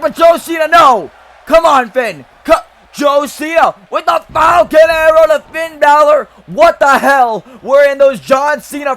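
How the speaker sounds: high, loud play-by-play yell; excited shout. Real, not acted. Commentator calling a sudden comeback move, excited high loud shout. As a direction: blow the roof off calling the big move.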